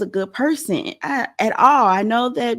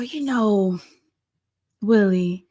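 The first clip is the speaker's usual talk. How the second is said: a hint of a drunk sneer; mock mean drunk. Host imitating a mean drunk, a hint of slurring. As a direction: lightly play a cruel drunk. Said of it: "That's the mean type of fucked up shit drunk people say".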